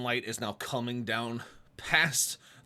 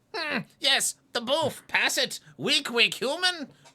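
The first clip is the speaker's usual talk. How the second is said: goblin voice, very high pitched and loud; 6 dB louder than usual. A player demonstrates the voice of their character: Clem's goblin voice. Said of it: "Clem is close to my goblin, which is close to my Skaven".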